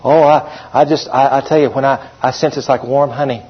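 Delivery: lightly voiced, hushed gush; mock gushing believer. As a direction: send up someone swooning over feelings. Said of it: "Have you ever heard people talk like that?".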